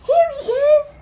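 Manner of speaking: high loud holler; excited shout from a branch. Acted. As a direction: call out from the treetop. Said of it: "she heard him holler".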